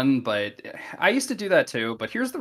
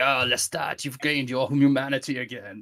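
lightly voiced moping Louis; a hint of a sulky sigh; mildly whiny self-pity; mopey Louis. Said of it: "perfect Louis impression".

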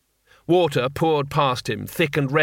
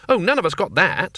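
lively tourist voice; 5 semitones higher, 4 dB louder than usual. Acted. Two Flower voiced.

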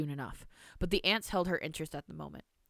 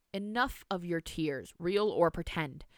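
sternly; slower than usual. Acted. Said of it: "said Amalia sternly".

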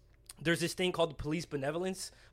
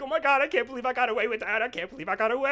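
higher, giddy retold amazement; laughing disbelief; 6 semitones higher, faster than usual. Driver alone after being let off, giddy disbelief. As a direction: marvel at a lucky escape, half-giddy. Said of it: "I literally could not stop laughing".

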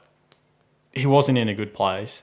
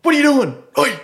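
high, loud challenge; mock alarmed shout; 12 semitones higher, 5 dB louder than usual. Dad calling out to a key thief, mock shouting. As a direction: imitate a dad yelling out in protest.

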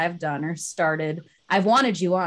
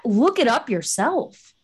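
exasperated; 4 semitones higher, 4 dB louder, slower than usual. Retold or imitated. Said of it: "I just wanna smack people on the head sometimes and be like".

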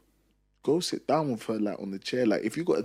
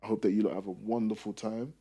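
polite brush-off; 3 semitones lower, 8 dB quieter than usual. Retold or imitated. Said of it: "I just say".

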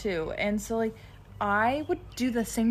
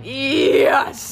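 a loud, bright "Yes!" pitched up; mock fangirl delight at finding fellow fans; excited yes; 4 semitones higher, 10 dB louder than usual. Retelling meeting coworkers who are fans of a band, excited yes.

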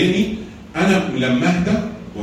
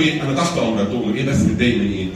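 calm and gentle; 4 semitones lower than usual. Shown as a demonstration. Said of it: "تاخده بهدوء كده وتقول له".

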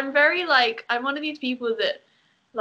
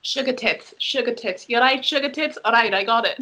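Nessa impression. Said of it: "Nessa from Gavin and Stacey".

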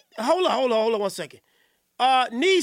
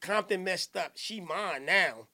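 mocking quote; 8 semitones lower, 7 dB quieter, slower than usual. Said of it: "you said".

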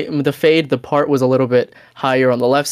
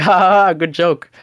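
higher-pitched, put-on chuckle at a bad joke; mock laugh; 6 semitones higher, 4 dB louder than usual. Customer retelling his reply to the barber's tip demand, mock laughing. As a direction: act out an awkward ha-ha brush-off.

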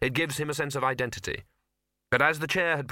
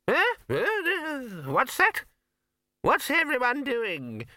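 put-on much higher, quavering old voice just woken; startled old man; 14 semitones higher, slower than usual. A narrator's reading. Poons waking in his wheelchair: high startled old voice. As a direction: jolt awake confused and creaky. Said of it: "said Poon, suddenly waking up".

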